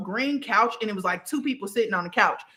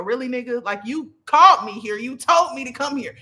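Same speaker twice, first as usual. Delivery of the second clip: sassy attitude; 3 semitones higher, 4 dB louder than usual. Retold or imitated. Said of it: "She got a little attitude".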